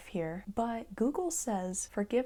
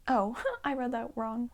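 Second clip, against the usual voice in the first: laughing at own slip; 4 semitones higher, 4 dB louder than usual. Real, not acted.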